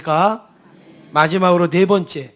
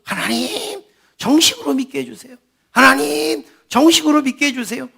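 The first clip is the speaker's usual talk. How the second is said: higher, louder pleading prayer, retold; 6 semitones higher than usual. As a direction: cry out to God over and over. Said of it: "이렇게 기도를 하는 거예요". (큰 소리로 간절히 외치는 기도 흉내)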